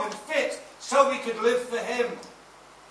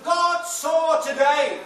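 preaching shout; 2 semitones higher, 4 dB louder, slower than usual. Real, not acted. Preacher building to climax.

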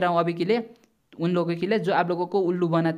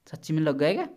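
incredulous question, swooping up at the end; genuinely stunned, voice rising on the last word; real disbelief. Real, not acted. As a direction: ask it as if you can't believe it. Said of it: "विश्वास भी नहीं हो रहा है".

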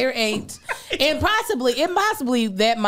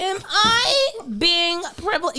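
high-pitched white-woman impression; full white voice; 8 semitones higher than usual. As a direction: put on a high, mock-worried white-lady voice.

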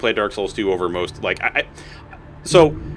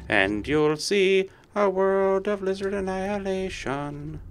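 high slow theatrical call; mock villain summoning his army; hammed-up grand summons; 9 semitones higher, 5 dB quieter, slower than usual. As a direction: play the mad overlord. Villain proclamation.

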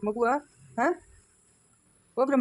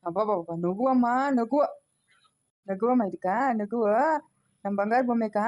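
put-on cooing to baby; slower than usual. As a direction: coax the baby to laugh, slowly. (ಮಗುವಿನೊಂದಿಗೆ ನಿಧಾನವಾಗಿ ಮುದ್ದಾಗಿ ಮಾತು)

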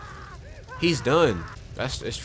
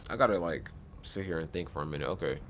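quiet thinking; 10 semitones lower, 11 dB quieter than usual. Real, not acted.

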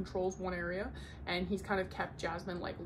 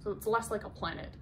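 ordinary talk, nothing marked

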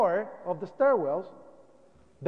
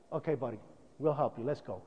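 tired; 7 semitones lower, 9 dB quieter than usual. Retold or imitated. Exhausted fireman quoted.

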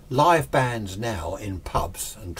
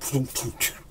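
vocal drum thumps, trailing off softer; imitated drum thunks; 4 semitones higher, 3 dB quieter, slower than usual. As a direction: mimic a quick drum check. Imitating drums being set up.

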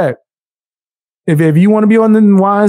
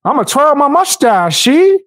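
cartoon villain; 4 semitones higher than usual. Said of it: "old school cartoon villain".

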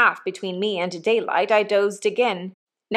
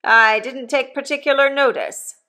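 dubious; 5 semitones higher, 4 dB louder than usual. A narrator's reading. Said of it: "he said dubiously".

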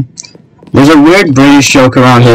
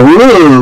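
mock ooh; 4 semitones higher than usual. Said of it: "you seem to go".

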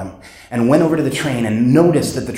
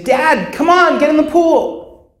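put-on much higher, slow pleading kid's voice; child's voice; 12 semitones higher, slower than usual. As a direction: call to dad like a small child begging. Speaker voices child calling dad.

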